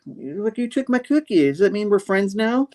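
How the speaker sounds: high, hammed-up hopeful plea; high hopeful Spidey. Spider-Man asking the goose to be friends, high plea. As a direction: plead up high like a lonely kid.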